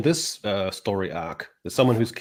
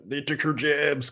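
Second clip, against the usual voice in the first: mock Southern accent; 4 semitones higher, 3 dB quieter, slower than usual. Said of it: "kind of accent".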